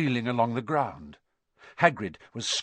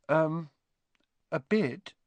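small, higher, hesitant voice; timid; 6 semitones higher than usual. A narrator's reading. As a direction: answer shyly, unsure of yourself. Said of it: "said Hermione timidly".

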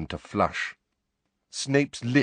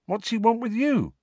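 unnerved. A narrator's reading. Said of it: "looking unnerved".

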